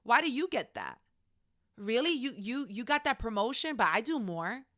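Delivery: mildly acted resentful questioning; a touch of jealous disbelief; envious friend. Friend questioning your promotion, envious. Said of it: "But then they're envious".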